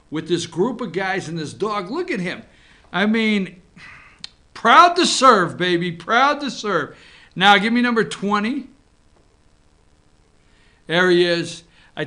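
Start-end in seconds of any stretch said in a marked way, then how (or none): 4.5-7.0 slow, lightly acted dog boast; proud dog voice. Voicing the proud military dog.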